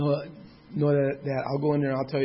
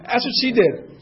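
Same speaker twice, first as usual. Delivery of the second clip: laughing; 4 dB louder, slower than usual. Real, not acted. Laughing while retelling call.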